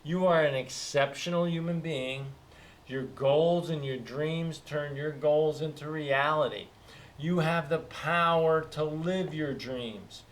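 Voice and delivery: slow, earnest self-affirmation; spoken affirmation. Shown as a demonstration. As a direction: say it like a daily promise to yourself. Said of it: "one of 'em is".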